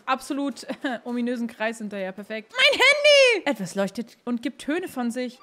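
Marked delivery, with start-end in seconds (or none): 2.5-3.5 excited. Acted. Excited cry at phone.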